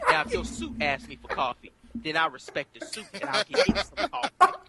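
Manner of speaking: high, fast mock speechifying with laughter; mock speech. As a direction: lampoon a pompous monologue. Terrence Howard speech parody.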